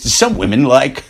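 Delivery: retold line in a calm, matter-of-fact tone; calm, cool delivery. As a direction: imitate an unruffled company man. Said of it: "looked her right in the eye and calmly, coolly".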